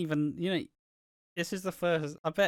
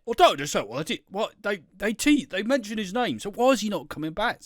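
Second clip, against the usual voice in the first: higher mock whine; mock fanboy whine; 8 semitones higher than usual. Mocking friend's Terry obsession, higher whining fan voice. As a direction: plead like a devoted superfan. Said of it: "this is gonna be your fat boy".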